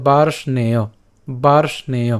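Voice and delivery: বার্ষ্ণেয় as "baarsh-ne-yo"; e-vowel pronunciation. Shown as a demonstration. Teacher completes the conjunct for learners, বার্ষ্ণেয় said as "baarshneyo". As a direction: sound r, sh, then "ne" clearly in বার্ষ্ণেয়. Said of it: "এ কারটা উচ্চারিত হবে".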